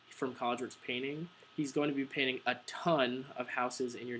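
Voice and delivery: measured doorstep pitch, leaning on key words like "free"; emphasized script read. Shown as a demonstration. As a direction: deliver the script clearly, stressing "free" in "free estimate". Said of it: "you know, emphasized".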